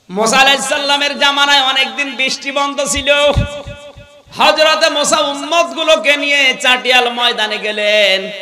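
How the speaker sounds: high, projected sermon narration; preaching storytelling. Real, not acted. Preaches at full force.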